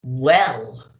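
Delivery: low, loud Santa boom; a hint of big jolly Santa. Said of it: "boomed Santa".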